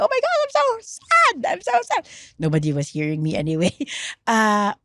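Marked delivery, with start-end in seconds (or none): 0.0-2.0 very high wail at held-back volume; re-enacted shouting. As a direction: wail it like a mock scream. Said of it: "just shouting as loud as I can".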